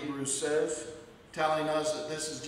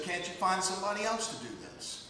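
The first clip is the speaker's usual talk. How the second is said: reluctant whining; 3 semitones higher, faster than usual. Acted. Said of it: "in reluctance".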